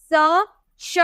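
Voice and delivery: स said with a hissing s, श with a hushing sh; स and श contrast. Shown as a demonstration. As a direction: make स and श sound clearly different. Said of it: "देखिए, दोनों बोलने में अलग है". (स और श का फर्क साफ़ बोलकर)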